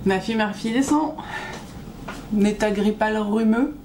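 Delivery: cracking voice with a cold; hoarse voice. Real, not acted. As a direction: voice giving out from flu. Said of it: "j'ai la voix qui flanche, je tousse".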